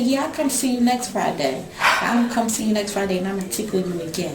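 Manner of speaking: a hint of a small girl's voice; imitating her daughter. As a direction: lightly voice the little daughter. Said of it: "She said".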